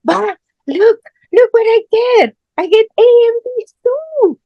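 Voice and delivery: put-on high, loud excited child showing off grades; excited kid. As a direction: squeal it proudly like a thrilled kid. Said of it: "So they get so excited".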